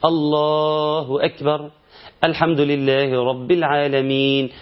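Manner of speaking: recited slowly, الحمد لله right after الله أكبر with no basmala; slow demo of the mistake that skips the basmala; demonstrating the skipped verse, unhurried; wrong recitation demo. Shown as a demonstration. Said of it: "حاسب، أنت شلت آية من الفاتحة".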